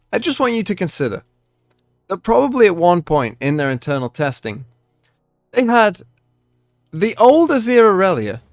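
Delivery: calm start building into a loud rant; calm turning angry. Real, not acted. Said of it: "obviously this is a rant".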